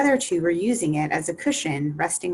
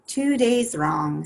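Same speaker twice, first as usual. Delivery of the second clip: slow, sighing lament; a slow sigh of dismay; 5 semitones higher, slower than usual. Acted. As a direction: let it out as a weary sigh. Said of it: "sighed the Hatter".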